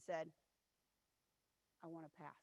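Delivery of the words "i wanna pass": sulky pass. Retold or imitated. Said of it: "put her head down".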